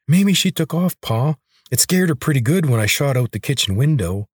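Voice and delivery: put-on young boy bragging to his father; boyish son voice. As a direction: pitch it up like a boastful kid.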